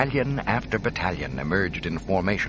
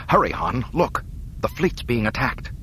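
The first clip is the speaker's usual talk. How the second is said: alarmed; 5 semitones higher than usual. Acted. Leia alarmed at attack.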